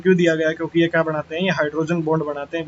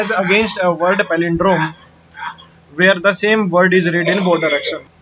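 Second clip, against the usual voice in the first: slow dictation; 4 dB louder, much slower than usual. Shown as a demonstration. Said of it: "reads definition, then repeats".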